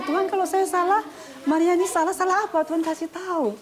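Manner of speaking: high-pitched pleading, easing down at the end; retold tearful plea. Missionary retelling her prayer in Padang, tearful plea without real sobbing. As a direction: plead with God, recalling the tears. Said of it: "saya nangis".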